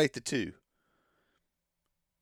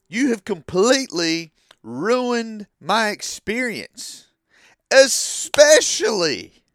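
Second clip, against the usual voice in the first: loud, raised-pitch exasperated rant; worked up; 4 semitones higher, 5 dB louder than usual. Real, not acted. Fan lecturing wrestlers who film in the crowd, worked up. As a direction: get heated and lean hard on key words. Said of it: "Sorry, I'm getting emotional".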